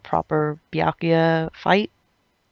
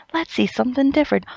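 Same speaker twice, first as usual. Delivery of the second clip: sarcastic mock hope; 8 semitones higher, faster than usual.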